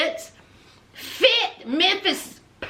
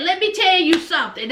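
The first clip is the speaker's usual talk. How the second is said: sassy warning; 2 semitones higher, faster than usual. Retold or imitated. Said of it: "She said".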